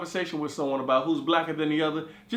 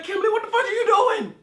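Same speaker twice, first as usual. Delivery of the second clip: laughing disbelief yell; 5 dB louder than usual. Retold or imitated. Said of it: "I'm like".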